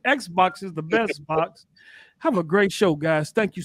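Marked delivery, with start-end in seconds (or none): 0.1-1.7 laughing slogan. Real, not acted. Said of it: "I can't even talk today".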